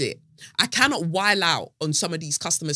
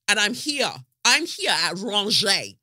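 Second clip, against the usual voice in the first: high rangé; 3 semitones higher than usual. Shown as a demonstration. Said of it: "Look at the levels".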